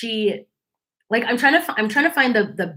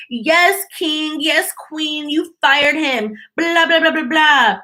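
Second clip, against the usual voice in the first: mock fan cheering; 5 semitones higher, slower than usual. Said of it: "everybody was like".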